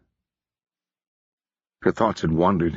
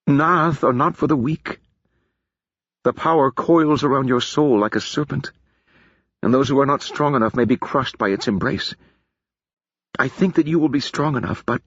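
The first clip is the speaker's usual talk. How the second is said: solemn teacher of magic; lightly voiced stern mage; 6 semitones higher than usual. Feor voiced, grave warning.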